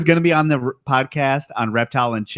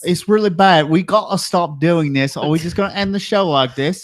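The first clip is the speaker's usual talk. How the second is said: put-on British accent; 3 semitones higher than usual. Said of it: "our terrible British accents".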